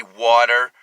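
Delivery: "water" with Philadelphia vowels; Philly-accented "water". Shown as a demonstration. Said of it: "do a Philly accent".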